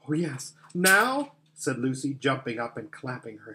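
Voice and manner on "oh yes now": put-on high, delighted girl's voice; eager excitement. Lucy jumping up and clapping, eager excitement. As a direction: jump in eagerly, pitched up.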